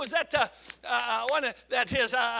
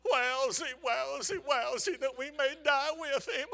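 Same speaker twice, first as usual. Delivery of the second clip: Schlepp Rock gloom; 7 dB quieter than usual. Retold or imitated. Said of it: "the Flintstones".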